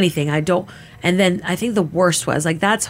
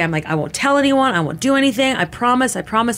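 frightened pleading; 5 semitones higher than usual. Retold or imitated. Retold pleading with attacker.

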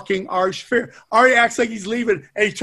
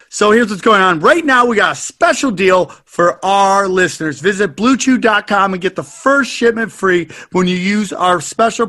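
loud, emphatic promo pitch, slowing at the end; promo code read; 4 dB louder than usual. Acted. Host gives listeners the promo code, loud and deliberate. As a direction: spell out the code so nobody misses it.

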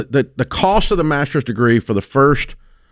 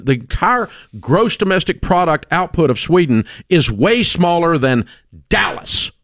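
usual speaking voice

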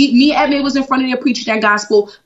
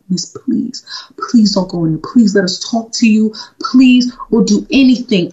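begging. Retold or imitated. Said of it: "I was begging her".

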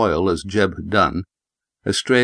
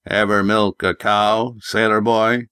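put-on old prospector; slower than usual. Gruff farmer Jeb voiced.

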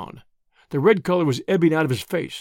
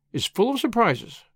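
higher, airy philosophizing; moralizing; 6 semitones higher than usual. A narrator's reading. Tuppence answering Whittington's admiration, moralizing. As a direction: moralize lightly. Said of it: "moralized Tuppence".

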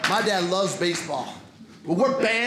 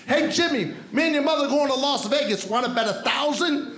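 dad's voice; 3 semitones higher than usual. Retold or imitated. Dad voiced in story.

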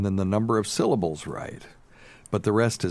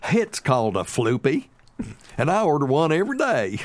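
put-on high, loud, prideful old lady voice; proud mother-in-law; 8 semitones higher, 4 dB louder than usual. Mother-in-law correcting a stranger in line, high and proud. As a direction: squeak it out like you're schooling him. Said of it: "she turns around and goes".

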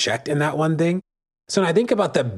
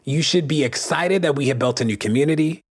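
mock patronizing reply; 5 semitones higher than usual. Activist voicing a knowing reply to celebrators, mock patronizing tone. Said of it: "And you're like".

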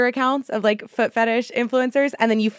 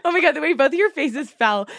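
laughing; 3 semitones higher than usual. Real, not acted. Reading the site, cracking up.

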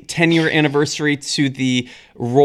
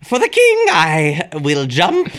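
mock knight's vow; 2 semitones higher, 3 dB louder than usual. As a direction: swear it like a knight. Mock oath for the king.

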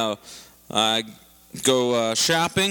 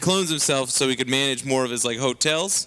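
Trump talk. Acted. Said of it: "Donald Trump talk".

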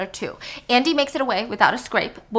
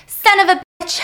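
higher, louder curse; pained shout; 9 semitones higher, 8 dB louder than usual. Acted. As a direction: yell as you jolt up. Helen shot, sitting up.

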